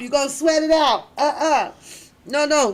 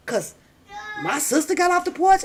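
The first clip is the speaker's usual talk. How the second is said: usual speaking voice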